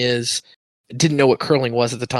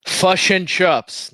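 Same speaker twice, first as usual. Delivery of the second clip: very slow, higher American take on Kiwi words; bland American accent; 7 semitones higher, much slower than usual. Shown as a demonstration. Joking after the lesson, failed New Zealand in American accent. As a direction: draw out the words in plain American. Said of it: "in a bland American accent".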